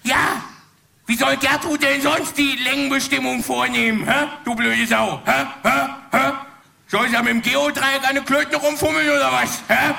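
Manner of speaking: mock-indignant rant with repeated challenges; retold aggressive badgering; imitated shouting. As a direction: hurl questions like an exasperated Kurt. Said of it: "zu schreien und schreit".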